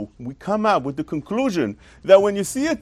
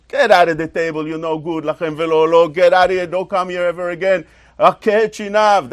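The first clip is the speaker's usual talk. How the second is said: louder, mock-stern expulsion; mock angry father; 3 dB louder than usual. Father throwing his son from the table, mock angry. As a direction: throw the kid out in a mild mock yell. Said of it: "So what do you say to him?".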